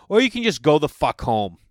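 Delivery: mildly heated retort; blunt retold outburst. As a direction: blurt it out as if patience ran out. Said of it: "I just said it like that".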